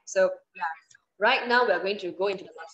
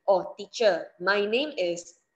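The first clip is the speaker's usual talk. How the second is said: slow model answer; slower than usual. Shown as a demonstration. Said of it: "you need to give her your full name".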